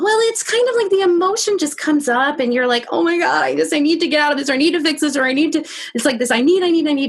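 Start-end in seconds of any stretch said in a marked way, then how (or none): 2.9-7.1 higher, rushed panicked pleading; mock panic. Overwhelmed person caught in emotion, higher mock panic. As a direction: spiral into a frantic need to fix it. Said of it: "And it's like a panic".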